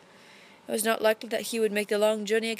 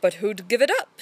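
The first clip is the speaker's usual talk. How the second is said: a touch of challenge, a bit louder; challenging; 4 dB louder than usual. Acted. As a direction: throw the question down as a dare. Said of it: "said Desmond challengingly".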